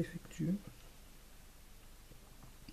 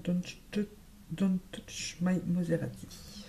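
real French accent on English words; slower than usual. Real, not acted. Beauty vlogger reading out a shade name, French-accented English. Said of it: "mon superbe accent anglais".

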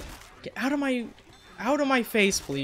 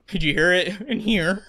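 voice cracking; 2 semitones higher, 4 dB louder than usual. Real, not acted. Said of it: "still going through puberty".

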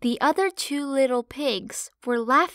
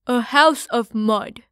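louder, keen little pig answer; eager piglet; 8 dB louder than usual. Acted. Parley telling mother his dream house, eager and loud. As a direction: blurt it out eagerly. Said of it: "answered Parley".

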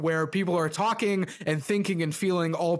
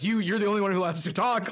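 mock exasperation; 5 semitones higher, faster than usual. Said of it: "he points to one of them and goes".

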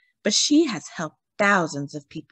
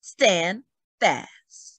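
louder, rallying cry against thugs; rallying yell; 4 dB louder, much slower than usual. Acted. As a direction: hold the line, girls. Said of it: "she yells".

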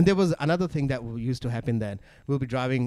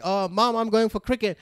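put-on teen voice; 9 semitones higher than usual. Teen telling mom he's going out.

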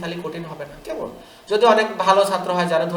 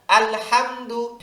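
slow, clear আল হামদু; slow model reading; 3 semitones higher, much slower than usual. Shown as a demonstration. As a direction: repeat it slowly for the class. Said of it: "আরেকবার". (ধীরে ধীরে আল হামদু পড়া)

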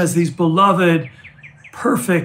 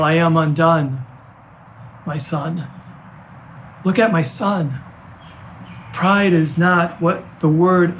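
spoken verse in short phrases with long pauses; recited lyrics. Acted. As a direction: recite it as a father's words to his son, fading at the end. Recites father's lyrics to his son.

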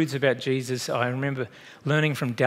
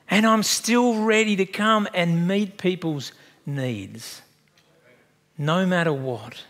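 reassuring Jesus; 3 semitones higher, slower than usual. Retold or imitated. Jesus quote slows, settles.

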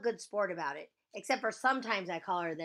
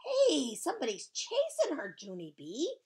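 high, loud alarmed call; loud, high-pitched holler; yelling; 7 semitones higher, 6 dB louder than usual. Acted. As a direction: yell it out to a friend across the playground. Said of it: "she yelled".

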